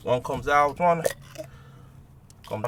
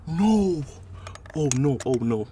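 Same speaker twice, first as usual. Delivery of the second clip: panicked; 3 dB louder, slower than usual. Real, not acted. Plug stuck inside.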